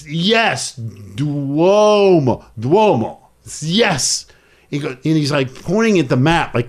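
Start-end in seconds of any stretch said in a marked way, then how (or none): 0.1-4.3 put-on Italian accent. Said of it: "I pretend I'm Italian".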